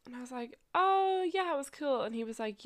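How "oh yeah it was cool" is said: breezy retold reply. Retold casual reply to his friend.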